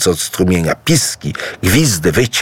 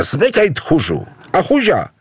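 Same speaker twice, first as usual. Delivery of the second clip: jeering shout; 8 semitones higher than usual. A narrator's reading. The animals jeer at the advancing Idu. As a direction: taunt him to scram. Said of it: "krzyczały zwierzęta".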